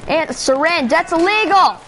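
lightly voiced bossy cop lecturing; mock cop. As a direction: scold them like a petty officer.

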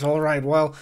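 put-on friendlier send-off in northeastern US accent; brightened bartender. Bartender sees Oz off after a tip, brightened northeastern US accent. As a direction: northeastern US barkeep, mood lifting. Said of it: "her mood seems to brighten considerably".

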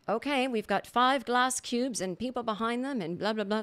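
mock British show host; British accent. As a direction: put on a light British accent. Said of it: "This is my British accent".

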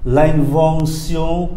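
slow "L'invention" with all three vowels nasal. Shown as a demonstration. Teacher shows it differs from English, three nasal vowels. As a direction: draw out each nasal in "L'invention". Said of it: "ba âm mũi này".

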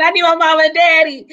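rueful laughing replay; laughing repeat. Retold or imitated. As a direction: laugh at yourself as you quote it. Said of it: "I remember saying".

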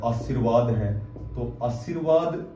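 आशीर्वाद said slowly and carefully, each syllable clear; careful, drawn-out आशीर्वाद; slow correct pronunciation. Shown as a demonstration. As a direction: model आशीर्वाद slowly for students. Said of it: "ये शुद्ध शब्द है आशीर्वाद".

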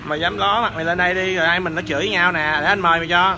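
loud, confrontational goading; real combative dare; angry challenge. Real, not acted. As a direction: call them out loudly. Challenging opponent to show face.

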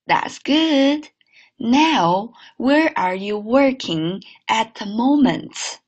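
slow clear repeat; careful second read; repeat model. Shown as a demonstration. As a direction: say it again slowly.

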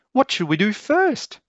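high, loud cooing mother voice; fond mother squealing with joy; doting mum. A narrator's reading. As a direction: gush over her little one.

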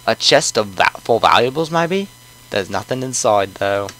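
put-on British accent left on by habit; lightly put-on British voice. Player searches the chest, still in British accent. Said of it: "I still have the British accent on".

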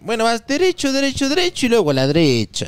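put-on lilting Cuenca accent giving directions; Cuenca sing-song accent. Local from Cuenca gives street directions in a Cuenca lilt. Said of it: "Ese cantado a mí me encanta".

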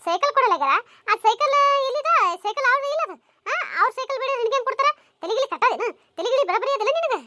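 loud, mocking scolding with a laugh; scolding parent. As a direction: tell the kid off loudly. Parent scolding crying child.

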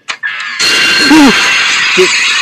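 high, breath-caught gasp; startled gasp. Real, not acted. Player hit by a jump scare, gasping. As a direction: gasp at a sudden fright.

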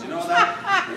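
bright, high and loud tag question; excited. Real, not acted. Speaker to the audience, excited and high-pitched. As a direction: lift the voice up high, delighted. Excited aside after Ireland memory.

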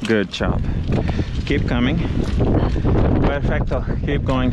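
loud calls up the slope; calling out. Real, not acted. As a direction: shout encouragement down to climbers. Guiding climbers from above.

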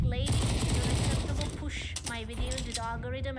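loud, indignant mock complaint to the lady; mock demand. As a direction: demand it like an outraged customer. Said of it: "I was like".

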